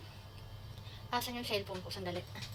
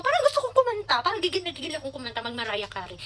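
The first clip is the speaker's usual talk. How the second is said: excited; 3 semitones higher than usual. Pretend. Imagined eager singer thought.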